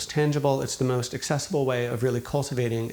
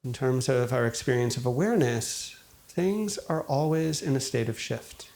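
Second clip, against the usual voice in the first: calm, unhurried meditation guide, long pauses between phrases; guided meditation. Acted. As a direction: gently guide listeners into settling, leaving space after each thought. Leads a guided meditation after intro.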